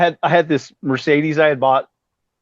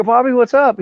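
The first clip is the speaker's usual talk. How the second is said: high, friendly call-out; retold greeting; 9 semitones higher than usual. Arriving bassist hails Bobby in the driveway, calling out. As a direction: call over to someone in the driveway.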